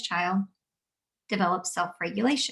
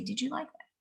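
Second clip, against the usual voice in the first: gentle; 4 semitones higher, 8 dB quieter than usual. Shown as a demonstration. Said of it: "I'm going to hug that child".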